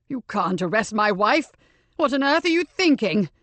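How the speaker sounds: indignant husband, rising to a near shout on the second line; outraged disbelief. Acted. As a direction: protest as if the accusation is absurd. Husband shocked at wife's arrest.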